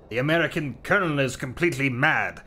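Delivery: a light mock French accent. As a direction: play a bemused Frenchman, lightly. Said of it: "That's my French accent for you".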